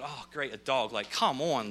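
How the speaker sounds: mildly deflated, sarcastic grumble; bummed out. Retold or imitated. Volunteer fireman hearing he must save a dog, mildly bummed out. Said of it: "he's kinda bummed out about this".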